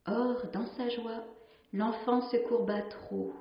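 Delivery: measured storytelling read, lingering on the images; story narration. Acted. A nun reading a sea legend to her sisters, in a calm storytelling voice. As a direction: read the old tale aloud to the community, letting each line settle. Reads a tale aloud.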